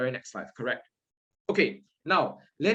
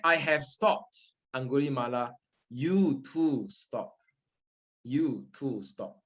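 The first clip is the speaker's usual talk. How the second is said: calm Buddha's words; 4 semitones lower, slower than usual. Retold or imitated. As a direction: speak gently as the Buddha. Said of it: "The Buddha said".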